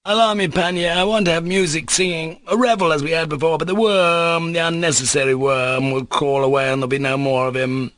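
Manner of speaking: near-choking exaltation. Acted. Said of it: "He was almost choking".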